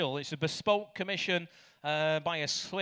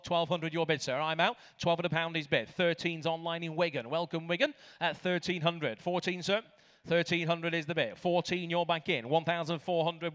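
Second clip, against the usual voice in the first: auctioneer. Real, not acted. Auctioneer calling bids.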